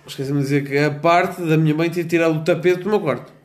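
slurring a little, tipsy. Real, not acted. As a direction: talk like you've had a few. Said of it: "Estou muito bêbado".

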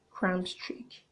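a sly aside, barely voiced; conspiratorial whisper. Telling viewers her date escape plan, whispering. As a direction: whisper the scheme under her breath. Plotting to fake cramps.

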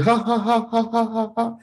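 prayer dissolving into high imitated laughter; breaking into laughter. Retelling his desperate prayer, breaking into uncontrollable mock laughter. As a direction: start praying evenly, then break into mock ha-ha-ha on "peace". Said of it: "I start laughing".

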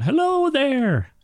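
high-pitched hail to strangers; calling out. Acted. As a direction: call out high, drawing out the hello. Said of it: "you hear someone shout out".

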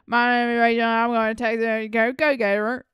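a hint of a Southern college girl; Southern accent. Friend imitates TikTok girls in a light Southern accent. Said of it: "really Southern accents".

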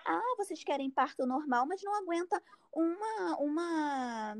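mimicking a doctor's needling digs; snide insinuations. Doctor jabbing at a patient in pain, snide insinuations. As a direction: throw out snide little jabs, as if imitating her. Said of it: "várias insinuações, assim, sabe? Tipo assim".

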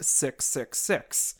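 slow spooky whisper; hushed, slow and sinister; ominous whisper. Acted. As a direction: breathe it out slowly like a dark secret. Revealing the number of the beast.

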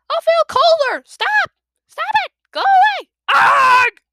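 very high, loud frantic shrieks; panicked yelling. Acted. Clay dragged toward icy river, frantic high yelling. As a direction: scream it while being dragged.

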